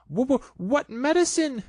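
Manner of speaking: high stammered fright; stammering fear. Acted. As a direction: Piglet dreading the medicine. Piglet frightened.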